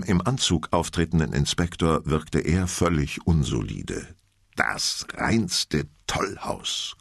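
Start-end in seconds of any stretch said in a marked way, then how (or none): 4.5-6.9 dry statement. Acted. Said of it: "konstatierte der Inspektor".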